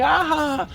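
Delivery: high-pitched mock laugh; imitated giggling. Family laughing in the dream, high mock giggle. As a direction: imitate a room full of giggles. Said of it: "everybody was just laughing and giggling".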